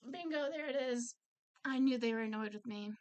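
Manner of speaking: triumphant "gotcha" cry to yourself; mock triumphant outburst. Imagined triumphant inner reaction.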